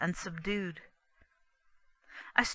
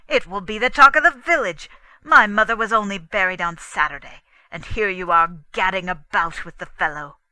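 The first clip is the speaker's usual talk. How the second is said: louder, fast, furious reproach; angry scolding; 12 dB louder than usual. Acted. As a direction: tear into her over the gossip. Husband scolds wife, quarrel.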